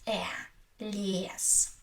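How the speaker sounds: "э", then "лес" with long open e; pronounced as э. Shown as a demonstration. Teacher giving the answer, "лес" with stretched open e. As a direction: isolate the e, then hold it in "лес". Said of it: "We pronounce it as".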